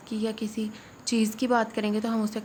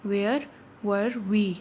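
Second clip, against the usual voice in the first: each word drawn out very slowly; slow dictation; much slower than usual. Shown as a demonstration. Teacher dictating to students, very slow and clear. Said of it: "तो number one पे है".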